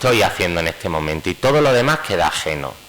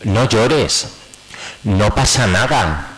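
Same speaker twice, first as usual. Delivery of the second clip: invalidating comfort; 3 semitones higher, much slower than usual. Shown as a demonstration. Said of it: "Validar consiste en no hacer el".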